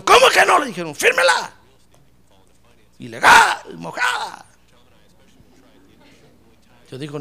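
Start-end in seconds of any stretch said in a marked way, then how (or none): 0.0-0.6 loud, high-pitched demand; indignant challenge. Retold or imitated. Officers angrily challenge her refusal. 0.9-4.4 high, shouted insults; yelled order. Retold or imitated. Officers yell abuse ordering her to sign.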